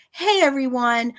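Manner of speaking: mocking imitation. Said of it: "you said".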